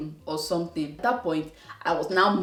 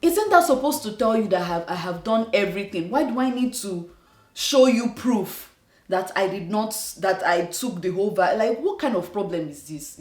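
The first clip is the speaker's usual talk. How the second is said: raised, rising exasperation; frustrated rant; 2 semitones higher than usual. Retold or imitated. Venting at the clinic over vaccine proof, exasperated and rising. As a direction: pile on the indignation, voice climbing. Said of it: "I'm like".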